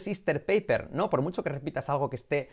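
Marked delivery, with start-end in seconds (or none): 0.0-0.9 "sister paper" said the Spanish way; "sister paper" without the lingering English r; wrong pronunciation. Shown as a demonstration. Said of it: "Que no escuches".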